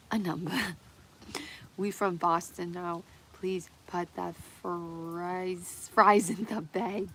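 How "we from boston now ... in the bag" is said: slow, lazy Boston drawl ordering fries; mock Boston accent. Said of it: "gonna have this accent".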